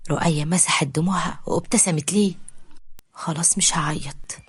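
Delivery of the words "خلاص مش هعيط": slow whisper, holding back tears; tearful whisper. Acted. Roaya promising Omar to stop crying, slow whisper.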